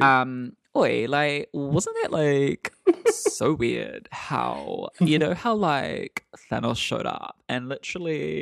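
geek out in a nerd voice; nerdy geeky voice. Pretend. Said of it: "nerdy, geeky voice".

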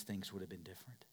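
quick hushed whisper. Acted. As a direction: let it fall to a quick whisper. Preacher drops to whisper.

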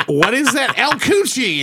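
high-pitched, playful asking; mock-innocent question. Student asking teacher about her shirt, mock-innocent.

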